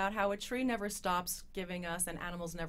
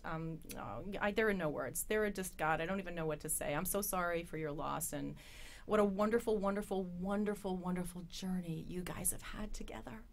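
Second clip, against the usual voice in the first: consoling. Real, not acted. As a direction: gently offer sympathy. Condoling guest on pet's death.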